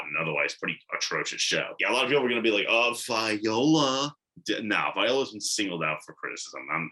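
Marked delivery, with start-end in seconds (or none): 2.7-4.1 slow, drawn-out mock swooning; mock gushing. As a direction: imitate fans cooing over her, stretching each word. Mimics gushing reaction of other people.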